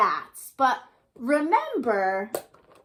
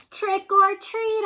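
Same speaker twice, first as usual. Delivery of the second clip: slow sing-song question, higher; mommy asking; 9 semitones higher, 3 dB louder, much slower than usual. A narrator's reading. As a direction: tease the little monster. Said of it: "asked the mommy".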